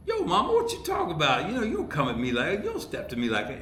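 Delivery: high, fast, hammed-up kid talking back to his mom; mock street kid. Writer pitching how a kid would diss his mom, mock sassy. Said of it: "oh, he'd be like".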